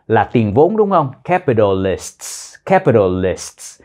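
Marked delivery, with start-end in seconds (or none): 1.2-2.5 teacher drilling the final sts; final sts sound. Shown as a demonstration. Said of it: "âm sờ tờ cuối". 2.7-3.8 capitalists slow, lower, stressing the closing "sts"; teacher repeating capitalists for the ending; final sts sound. Shown as a demonstration. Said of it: "âm sờ tờ cuối".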